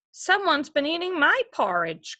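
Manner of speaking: lightly voiced baby bear on the verge of tears; mock little cub wail; wee baby bear crying. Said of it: "cried Wee Baby Bear".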